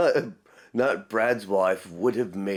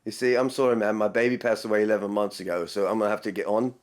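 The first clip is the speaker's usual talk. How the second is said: brisk mock British delivery; lightly put-on British voice, composed and quick; imitated British charm; faster than usual. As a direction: rattle it off like a charming Brit. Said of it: "see how charming he was? He was British".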